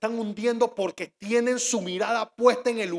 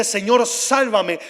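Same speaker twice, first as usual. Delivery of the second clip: loud, slow plea to be saved; acted cry for help; 7 dB louder, much slower than usual. Peter sinking, calls to the Lord, loud acted cry. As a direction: call out for rescue, drawing it out. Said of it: "él comenzó y gritó y dice".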